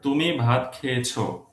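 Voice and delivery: "খেয়েছো" settling downward; statement tune. Shown as a demonstration. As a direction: say it as a fact, "খেয়েছো" falling. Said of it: "statement".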